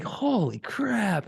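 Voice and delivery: high, slow, stretched-out exclamation; imitated amazement. Dad imitating his amazed son at the movie. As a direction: play a kid marveling in slow disbelief. Son's amazed reaction, acted out.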